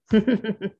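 short wicked witch laugh; a gloating little cackle. Acted. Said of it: "she laughed wickedly".

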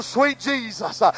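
sweet Jesus, hushed, almost breathed; soft awed sweet Jesus. Real, not acted. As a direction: drop to a near hush in devotion. Overcome in prayer.

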